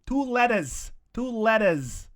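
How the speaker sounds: hammed-up meathead mocking a name; mock tough guy insult. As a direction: spell out the insult like a swaggering bully. Acting out the confrontation.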